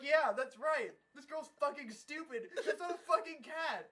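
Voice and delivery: loud, high, incredulous ranting; hammed-up indignant shouting; exasperated rant. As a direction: yell it in comic outrage. Outraged rant at the show.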